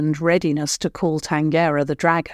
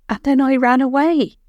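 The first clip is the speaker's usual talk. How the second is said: bluntly; 8 semitones higher, 4 dB louder than usual. A narrator's reading. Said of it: "Kale said bluntly".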